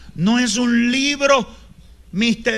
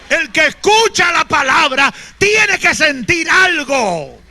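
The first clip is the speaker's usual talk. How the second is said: loud, high preacher shouting scripture; fiery preaching; 7 semitones higher, 5 dB louder than usual. Acted. Preacher shouting scripture to the congregation, fiery and loud. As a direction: thunder it at the congregation.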